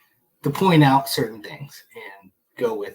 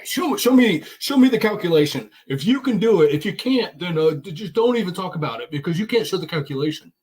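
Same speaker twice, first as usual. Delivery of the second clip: lightly imitated Daryl, higher-pitched insistence; mock a nagging demand, pitched up; Daryl impression; 4 semitones higher than usual. Debate regular mocking Daryl's repeated demand, higher-pitched imitation. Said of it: "he's always exactly the same way".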